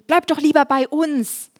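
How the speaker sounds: bittender Petrus. Retold or imitated. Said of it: "Petrus hat gesagt".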